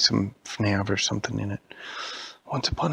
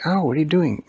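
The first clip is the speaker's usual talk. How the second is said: higher, louder ow; hurt cry; 6 semitones higher, 5 dB louder than usual. Acted. Kicked Siege complains, surprised hurt cry. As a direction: yelp when kicked. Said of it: "And the Siege said".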